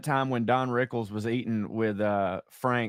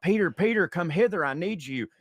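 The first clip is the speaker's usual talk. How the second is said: Jesus calling out; 5 semitones higher than usual. Acted. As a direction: call Peter like a distant lord. Jesus calls again, louder.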